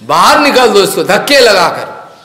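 loud order to throw someone out; angry Duryodhan. Retold or imitated. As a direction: command it like an offended prince. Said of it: "गुस्सा आया".

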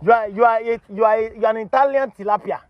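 high, repetitive scolding; indignant insult. Real, not acted. Host berating woman who confessed, indignant insult. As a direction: wind up repeatedly before each insult.

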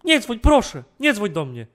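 frantic high shouts for help; panicked yelling. Real, not acted. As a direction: yell in total panic. Intruder inside, yelling for police.

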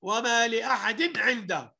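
وما لأحد عنده with unheld n before ع; clear izhar. Shown as a demonstration. Teacher repeating the rule, quick n in لأحد. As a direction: pass from لأحد's tanween straight into عنده. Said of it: "أقوله بسرعة".

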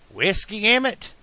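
high, startled disbelief; shocked he'd even ask; alarmed. A narrator's reading. Bartender alarmed.

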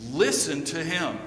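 LISTEN punched at the start, then falling; emphatic quoted command. Retold or imitated. Preacher quoting God the Father to the congregation, emphatic. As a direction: stress "Listen" firmly, falling through "to him". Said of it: "with an exclamation point".

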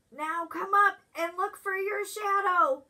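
calling out. Acted. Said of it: "Groundhog shouted".

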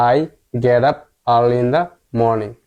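very slow, each word apart; slow model reading again. Shown as a demonstration. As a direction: repeat slowly for learners. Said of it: "পুরো লাইনটি আমরা পড়ি". (ধীরে ধীরে আবার পড়া)

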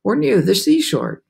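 mildly excited James voice; eager. A narrator's reading. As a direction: jump in eagerly. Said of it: "James said eagerly".

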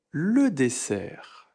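Le dessert said slowly with le stressed; slow model. Shown as a demonstration. Teacher slowly modelling Le dessert. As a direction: draw out Le dessert. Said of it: "on prononce le R".

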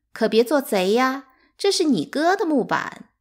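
high, loud smug taunting; smug gloat. A narrator's reading. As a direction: gloat over the girls, pleased with herself. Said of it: "得意洋洋地说". (得意洋洋地高声嘲弄)

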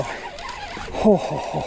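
high yelp sliding into a laugh; real delighted laugh; giddy laugh. Real, not acted. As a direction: burst out laughing. Laughing at the strike.

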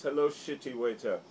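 a lightly voiced taunting action star; hammed-up bully customer; mocking bully voice. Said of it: "he goes".

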